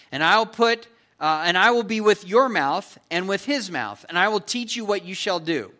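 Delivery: God rebuking an unwilling Moses, loud and stern; angry God. Acted. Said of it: "the anger of the Lord was kindled".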